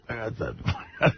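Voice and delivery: sleepy, husky just-woke-up voice; groggy morning rasp, still half asleep. Real, not acted. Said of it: "My morning voice".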